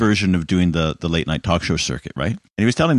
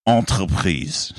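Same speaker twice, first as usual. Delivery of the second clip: slow mock French accent; slow, light French-accented narration; slower than usual. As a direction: ham up the French captain. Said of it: "speak with a French accent".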